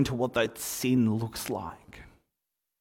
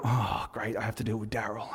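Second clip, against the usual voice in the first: resigned groan, dropping softer at the end; mock exasperation, sinking away; weary referee; 2 semitones lower, 5 dB quieter than usual. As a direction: grumble it like a referee dreading the player. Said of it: "the referees would go".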